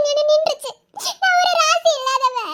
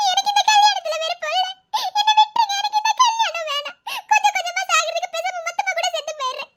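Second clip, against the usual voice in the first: desperate plea; 4 semitones higher than usual. Acted.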